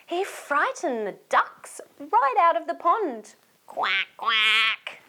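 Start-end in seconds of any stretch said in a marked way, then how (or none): 3.7-5.0 duck quack. Acted. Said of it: "said the ducks".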